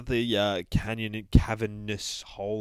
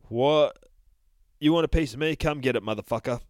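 cocky taunt, louder at first, then fast; tough guy challenge; 5 semitones higher, 5 dB louder than usual. Acted. Teddy bear squaring up to the rancor, cocky and defiant. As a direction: square up and dare him. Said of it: "he's like".

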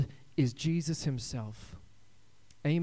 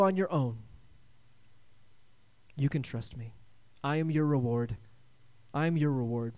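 God's reassurance. Acted. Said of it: "God came and reminded him".

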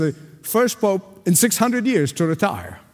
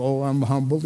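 mock humble; 4 semitones lower than usual. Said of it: "the person who pretend to be humble".

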